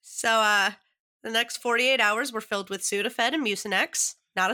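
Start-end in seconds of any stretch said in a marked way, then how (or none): 1.2-4.2 stuffy nose from a cold; congested nasal voice. Real, not acted. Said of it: "so that's why I sound really nasally today".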